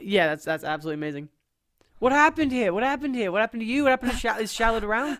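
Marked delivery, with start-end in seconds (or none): 2.0-5.2 high, rapid-fire worried questions; urgent alarm. Acted. Questioning the grandmother about Shallard, alarmed. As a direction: fire off questions in acted panic.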